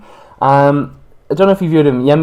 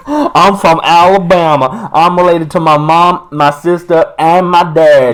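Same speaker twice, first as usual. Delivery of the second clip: put-on Southern American accent; 3 semitones higher, 4 dB louder than usual. Host parodies an Alabama local, hammed-up Southern accent. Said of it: "like, Texan".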